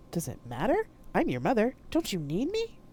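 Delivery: high, eerie hurt ghost voice; wounded ghost asking why; ghostly mother. Acted. Mama J's ghost asking Poe why she ran, eerie.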